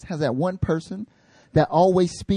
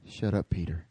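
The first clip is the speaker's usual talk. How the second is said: dry put-down; 9 semitones lower, 10 dB quieter than usual. Retold or imitated.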